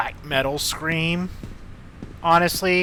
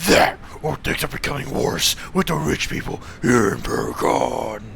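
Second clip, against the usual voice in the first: gang thug voice; 3 semitones lower than usual. Acted. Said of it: "He should be sounding like a death metal guy".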